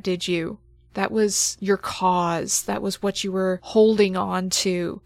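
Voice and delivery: intense, measured narration with pauses; game master scene setting. Acted. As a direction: lay the character's soul bare, building dread. GM narrates the creature encounter.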